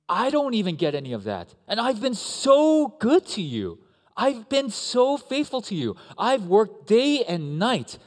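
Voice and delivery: put-on older son protesting to his father, furious shout. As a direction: rage like a wronged, faithful son. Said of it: "is furious".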